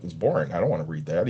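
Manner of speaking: low-pitched, offhand mock student; indifferent student reply. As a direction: shrug off the coach in a retelling. Retold indifferent student answering coach.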